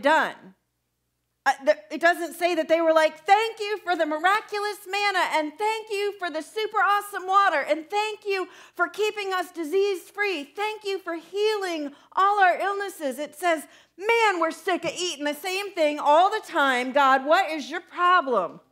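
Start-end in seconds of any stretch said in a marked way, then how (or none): 3.2-13.2 higher, sugary thankful voice; mock grateful Israelites. Preacher mocking the thanks Israelites never gave, sugary high voice. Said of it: "We never sound like that". 14.0-18.6 whiny grumbling, a touch louder; mock whining complaint. Israelites griping to God about manna, mock whine. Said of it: "We never sound like that".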